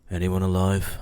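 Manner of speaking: flat, emotionless question; monotone voice. Acted. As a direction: ask it dead flat, no feeling. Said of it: "in a very monotone voice".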